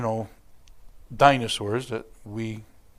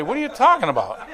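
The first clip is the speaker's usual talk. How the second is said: quick, higher, puzzled through laughter; laughing confused friend; 9 semitones higher, 6 dB louder, faster than usual. Retold or imitated. Rick reacting to his name used as a curse, laughing. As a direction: play a baffled friend while chuckling. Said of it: "And Rick's gonna say".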